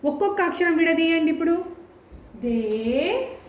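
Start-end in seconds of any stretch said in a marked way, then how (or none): 2.4-3.4 "దే" held very long; drawn-out long vowel. Shown as a demonstration. Teacher isolating each letter, long sustained "దే". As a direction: stretch out the single syllable "దే". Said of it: "దీర్ఘం తీస్తున్నాం కదా".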